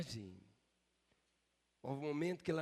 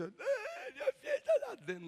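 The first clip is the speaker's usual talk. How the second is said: high, mock-tearful whine with a laugh; mocking whiny parent; 5 dB louder, faster than usual. Father mocked telling the church his child swims, mock-tearful whine. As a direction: whimper it like a disappointed parent. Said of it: "ele não falou com aquela cara de".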